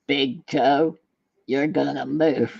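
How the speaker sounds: lightly imitated cowboy-hero command; a hint of a slow, deliberate movie tough guy; John Wayne. Retelling a film hero willing his toe to move, deliberate mock command. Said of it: "he always looks at his toe and he goes".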